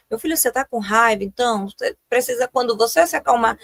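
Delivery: put-on calm, steady talk to an angry child; calm parent. Shown as a demonstration. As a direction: soothe the child gently. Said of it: "claro que você vai falar isso". (mãe acalmando o filho com calma)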